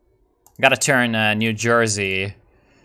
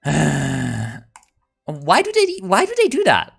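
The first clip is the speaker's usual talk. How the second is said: exasperated; 5 semitones higher, slower than usual. Real, not acted. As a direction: plead with the screen. Mexico declared war on ally.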